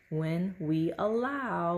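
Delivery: "allow" stressed and drawn out slowly. Shown as a demonstration. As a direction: lean hard on "allow". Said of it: "with emphasis on the word allow".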